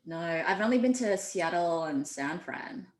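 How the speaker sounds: unhurried Aussie accent; slow, easy Australian voice. Shown as a demonstration. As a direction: answer casually in an Australian accent. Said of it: "switch now to my Aussie accent".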